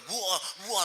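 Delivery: high popping booms; imitated firecrackers. Preacher recalling firecrackers at his arrival, imitated bangs. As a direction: mimic firecrackers going off. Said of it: "pakai pasang petasan lagi nyampe".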